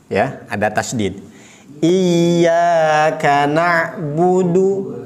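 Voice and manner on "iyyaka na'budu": very slow Iyyaka na'budu with the ya doubled; slow tajwid chant; model recitation. Shown as a demonstration. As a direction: recite it slowly, holding the doubled ya. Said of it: "Sekali lagi".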